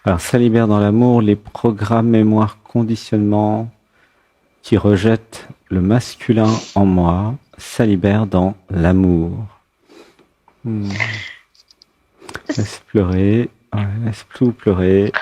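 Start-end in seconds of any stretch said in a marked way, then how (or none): 0.0-9.4 guided affirmation. Acted. Leads a release affirmation.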